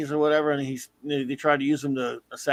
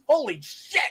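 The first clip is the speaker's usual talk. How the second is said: slow, drawn-out mock disbelief; retold incredulity; 8 semitones higher than usual. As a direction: rise high in appalled amazement.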